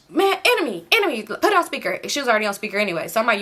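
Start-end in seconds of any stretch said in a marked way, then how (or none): 0.1-2.0 high-pitched imitation of summoning someone; calling his name. Friend on the phone to Enemy, calling him to attention.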